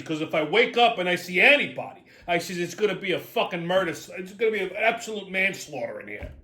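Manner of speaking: retold fed-up orders, leaning hard on the threat; aggravated. Patient warns the dentist before being knocked out, aggravated. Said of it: "I'm visibly fucking aggravated".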